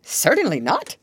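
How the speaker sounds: firm, emphatic no; emphatic refusal. Acted. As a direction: Toad refuses flatly. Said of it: "replied Toad emphatically".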